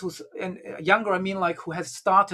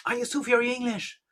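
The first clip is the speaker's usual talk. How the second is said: quick, higher, irritated question; annoyed; 5 semitones higher, faster than usual. Retold or imitated. Annoyed Sufi master asks the woman again, irritated. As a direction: snap it out, fed up. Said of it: "kind of really annoyed".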